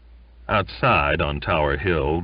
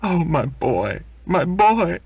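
high, loud, slobbering mother; gushing mother; 12 semitones higher, 4 dB louder than usual. Acted. Mother slobbers over her returning son, high and gushing. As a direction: gush over your son. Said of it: "She slobbered over him".

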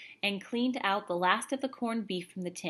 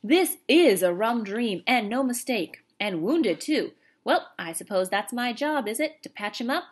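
Cockney soldier voice; 3 semitones higher, 7 dB louder than usual. A narrator's reading. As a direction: play the astonished British private with gusto.

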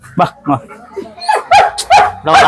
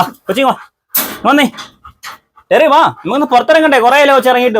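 higher, sing-song coaxing; coaxing the dog; 5 semitones higher than usual. Real, not acted. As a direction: sweet-talk a shy dog out. (നായയെ താഴ്മയോടെ സ്നേഹത്തോടെ വിളിക്കുന്നു)

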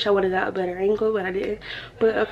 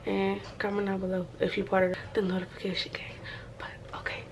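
whispering; 6 dB quieter than usual. Real, not acted. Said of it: "I'm whispering because".

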